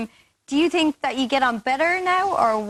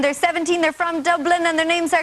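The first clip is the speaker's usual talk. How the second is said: higher-pitched host introduction building to a call-out; 4 semitones higher than usual. Real, not acted. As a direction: announce the guests, building to a cue for applause. Host introduces guests, calls for applause.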